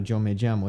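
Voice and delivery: Yo me llamo with sh for y and ll, sho me shamo; sh sound. Shown as a demonstration. Teacher showing the Argentine-like sh version. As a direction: soften ll into sh. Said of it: "It's not a".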